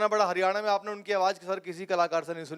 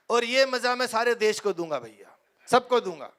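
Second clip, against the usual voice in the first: Rahul Gandhi impression. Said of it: "Rahul Gandhi".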